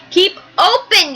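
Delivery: a light mock yell; mild yell. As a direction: call it up into the mouth. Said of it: "yelled Doctor DeSoto".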